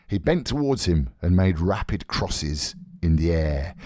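ordinary delivery

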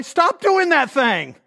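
slow, emphatic mock order; blunt mock advice again. Pastor repeats his joke advice to Shelley, slow emphatic order. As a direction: hammer each word. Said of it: "something stupid like".

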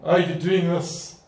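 slow, mocking dismissal then a laugh; scoffing. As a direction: brush them off with amused scorn. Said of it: "The Lord laughs. He scoffs at them".

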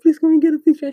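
high, loud pleading; imitating an eager fan; excited fan request. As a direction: beg for a photo in a high, eager voice. Acting excited fan asking for photo.

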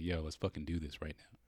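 low, quiet and matter-of-fact; understated, calm dare; calm challenge. Retold or imitated. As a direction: imitate her keeping cool while picking a fight. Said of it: "she was, like, calm".

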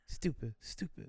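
high, slow mock-toddler insult; imitated toddler voice, drawn out; little kid name-calling. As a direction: chant it like a cross small child. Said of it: "I just started calling him stupid. I was a kid".

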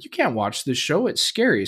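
mild retold parental protest, pitch climbing; objecting dad. Dad tells son it's scary, objecting. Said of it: "And I was like".

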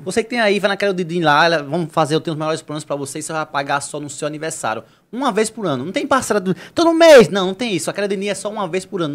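upbeat radio ad read; hard sell ad. Acted. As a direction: sell it like a pitchman. Reads sponsor ad.

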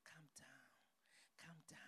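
soft, steady and quiet reassurance; softly calming a grieving cousin. Retold or imitated. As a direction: hush a panicking cousin gently on the phone. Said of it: "I was talking in a calm voice".

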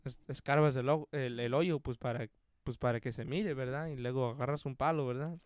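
soft, low, halting Spanish instructions; Don Verna. Retold or imitated. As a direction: imitate a coworker rambling quietly, checking with verdad. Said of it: "And he'd be like".

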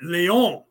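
Leon said the French way, lee-ON; French-style Leon. Shown as a demonstration. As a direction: say Leon as the French do, stress on the end. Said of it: "and the way they say it".

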